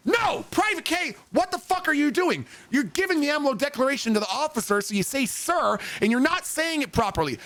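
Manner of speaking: high, shouted drill sergeant correction; yelling sergeant. Retold or imitated. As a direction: bark the correction at the recruit. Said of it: "And he goes".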